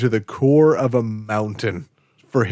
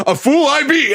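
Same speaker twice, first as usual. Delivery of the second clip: very high, loud hammed-up cry; gleeful retold cry; 6 dB louder than usual. Fan acting out Jack's favorite line, high laughing mock cry. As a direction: crow it through laughter, imitating a hero.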